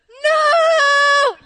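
sudden high shout of NO; horrified yell. Retold or imitated. Reliving the umbrella drop, a high yelled no. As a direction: cry out as the umbrella slips away.

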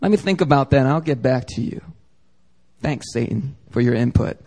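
meek polite reply. Retold or imitated. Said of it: "you shouldn't be like".

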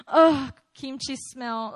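slow, sneering complaint; mock disgust. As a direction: say it slowly with contempt. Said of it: "Like, that".

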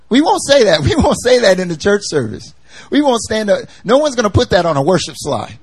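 high, loud amused denial; laughing protest. Real, not acted. Preacher joking to the church, laughing. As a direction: laugh it off with the congregation.

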